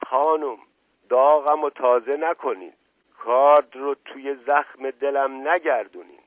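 high, loud romantic pleading; lovelorn. A narrator's reading. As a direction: plead like a wounded lover. (با لحن عاشقانه)

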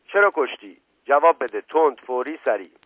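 high, loud interrogator's order; urgent command. A narrator's reading. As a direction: demand an answer on the spot. Inspector presses suspect for answer. (دستور بلند و آمرانه)

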